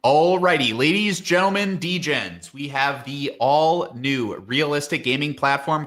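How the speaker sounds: high, hyped-up arena announcer pitch; game announcer voice. Pretend. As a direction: sell it like a big tournament announcer. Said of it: "in your best game announcer voice".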